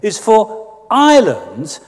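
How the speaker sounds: lightly mimicking an aristocratic drawl; a hint of a lazy toff, last words stretched out; Jacob Rees-Mogg drawl. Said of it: "Lord Adonis in his drawl".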